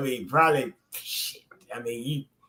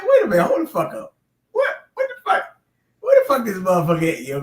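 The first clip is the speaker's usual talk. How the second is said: retold surprise; 2 semitones higher than usual. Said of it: "And I was like".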